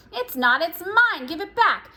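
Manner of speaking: whiny sibling demanding her sock; squabbling child. Acted. Twins quarreling over clothes.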